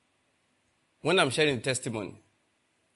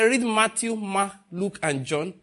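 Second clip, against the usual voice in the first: excited instruction; 6 semitones higher, 4 dB louder than usual. Retold or imitated. Convert giving his prescription.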